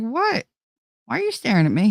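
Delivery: sudden high surprised question; surprised what. Retold or imitated. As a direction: caught off guard, asking why he stares. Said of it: "I was like".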